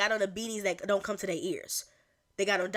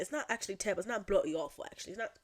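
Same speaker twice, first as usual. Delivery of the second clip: amateur attempt at an English accent; lightly put-on English accent; faster than usual. Shown as a demonstration. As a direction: try out a British English accent. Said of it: "I want to improve my English accent".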